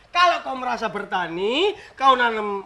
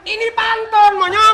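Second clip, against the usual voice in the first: mock annoyed; 7 semitones higher, 6 dB louder than usual. Mock-indignant retort to teasing.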